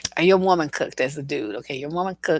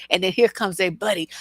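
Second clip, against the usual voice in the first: ordinary talk, nothing marked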